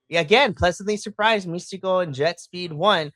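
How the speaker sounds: normal talking voice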